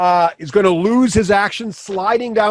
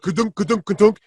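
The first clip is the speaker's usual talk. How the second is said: imitated bumping. Imitates wolf sliding down the steps.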